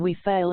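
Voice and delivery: "We" hit hard in outraged astonishment, then "fail"; indignant stress on we. Shown as a demonstration. Lady Macbeth shocked and indignant, stressing "We". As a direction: punch "We" with indignant disbelief. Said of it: "indignant astonishment laying the principal emphasis on the word "we".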